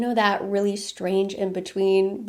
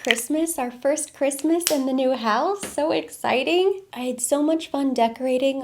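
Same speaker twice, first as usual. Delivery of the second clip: excited; 4 semitones higher than usual. Real, not acted. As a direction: stretch it out with real excitement. Gushing about first Christmas in house.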